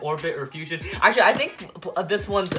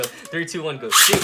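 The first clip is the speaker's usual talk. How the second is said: launch countdown call; 2 semitones lower than usual. Real, not acted. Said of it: "launching Beyblades countdown".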